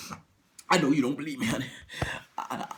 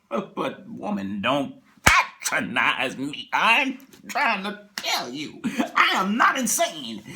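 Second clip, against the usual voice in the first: slow indignant plea; slower than usual. Acted.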